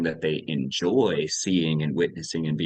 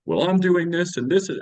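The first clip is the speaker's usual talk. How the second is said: higher-pitched defensive protest; mock defensive; 10 semitones higher, 4 dB louder than usual. Parent of a teenager to the coach, mock defensive. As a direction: insist on it, imitating a defensive parent.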